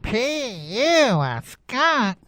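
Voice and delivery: high, soft drawn-out P-U; disgusted exclamation. Retold or imitated. Listeners reacting to a skunk, high-pitched mock disgust. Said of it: "a lot of you probably said".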